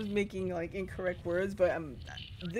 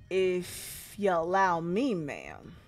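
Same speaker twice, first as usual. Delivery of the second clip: sly salesman; 3 semitones lower than usual. Acted. Creepy salesman character voiced.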